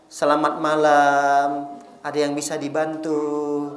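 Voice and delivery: hushed, courteous hotel-desk voice; soft polite greeting. Retold or imitated. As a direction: greet a guest gently and sweetly. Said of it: "Ditanya dengan kata-kata yang lembut".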